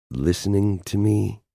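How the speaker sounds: losing patience with him; exasperated. Acted.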